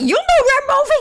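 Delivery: fierce, shrill, very high-pitched and loud. Retelling the mom's reply to her child, mock loud and fierce. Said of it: "She's just not that loud and fierce".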